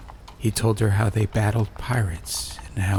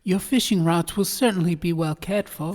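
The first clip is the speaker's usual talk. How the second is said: put-on 1 humble old craftsman; 9 semitones higher than usual. A narrator's reading. Trunk maker voiced in story.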